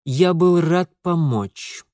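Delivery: slow, grudging and clenched; through gritted teeth. Acted. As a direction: squeeze it out slowly through teeth. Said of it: "процедил Алексей".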